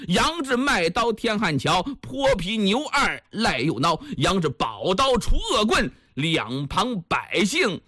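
chanted closing couplets, slowing at the end; closing verse recital. A narrator's reading. The storyteller sums up the tale for listeners, chanted verse slowing to the end. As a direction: recite the closing verse, drawing out the final line.

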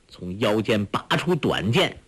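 ordinary delivery

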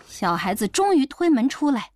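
ordinary delivery

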